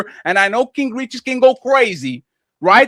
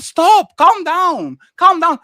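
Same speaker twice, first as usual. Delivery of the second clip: higher, louder stop and calm down; calling for calm; 5 semitones higher, 4 dB louder, much slower than usual. Real, not acted. Host in the heated panel telling him to calm down. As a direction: cut in sharply to calm him.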